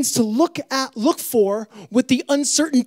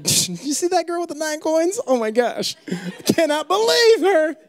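put-on gossiping girl; 5 semitones higher than usual. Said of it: "Be like".

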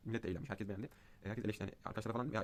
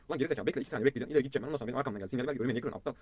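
angry rant; 3 semitones higher, 6 dB louder, faster than usual. Retold or imitated. Driver scolding the man who cut in, retold with irritation. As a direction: retell telling off a driver, irritated. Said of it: "Orada yemin ediyorum o kadar sinirlendim".

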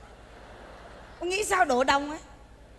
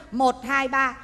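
slow count; 3 semitones lower, much slower than usual. Shown as a demonstration. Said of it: "cứ đếm ba bước chân".

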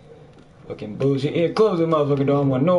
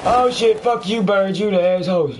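jolt, then curse at what startled you; startled cursing; 4 semitones higher than usual. Real, not acted. Player to the birds that startled him, startled cursing.

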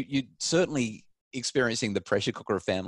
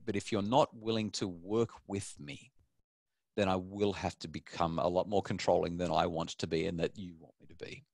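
measured, softer parental voice; firm parent; 4 dB quieter than usual. Acted. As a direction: calmly lay down the terms. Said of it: "as a parent, we simply have to say".

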